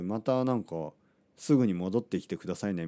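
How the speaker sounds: softly overdone sugary farewell, mocking the clerk; a mocking, sugary take on the clerk; exaggerated sweet staff voice. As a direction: parody the clerk's overly friendly send-off. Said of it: "いや、そんな言い方じゃないけど".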